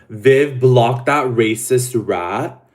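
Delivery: loud, slow order to block; firm command. Real, not acted. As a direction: call it out firmly.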